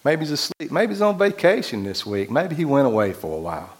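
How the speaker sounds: mock the false god's absence playfully; mocking taunt. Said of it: "And Elijah mocked them. He said".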